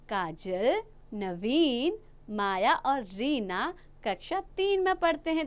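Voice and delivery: "Kajal", short stop, "Naveen", short stop, then the rest; rising Kajal and Naveen, each followed by a brief pause; pauses at commas. Shown as a demonstration. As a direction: read the list, pausing after Kajal and after Naveen. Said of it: "मैं काजल के बाद थोड़ा सा रुकी".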